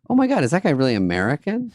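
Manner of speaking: high, fast excited British fans; British fans squealing in a put-on accent; mock British fans. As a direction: gush like British fans mobbing him. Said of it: "They're like".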